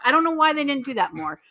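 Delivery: usual speaking voice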